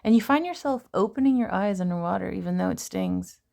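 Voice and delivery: hushed poetry read aloud; poem reading. Acted.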